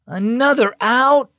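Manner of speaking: slow, high groaning complaint; moaning. A narrator's reading. Teammate Max moaning about Caden's out, slow groan. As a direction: drag it out in disgust. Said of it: "Max moaned".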